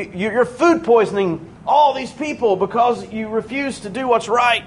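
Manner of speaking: curt high-pitched telling-off, not shouted; short, rude rebuke. Retold or imitated. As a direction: imitate a blunt doctor telling someone off. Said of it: "he just is real short with them".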